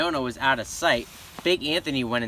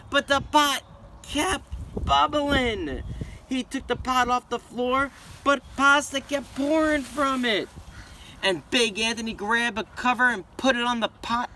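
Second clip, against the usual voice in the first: rising panic; 8 semitones higher than usual. A narrator's reading. Pasta crisis building.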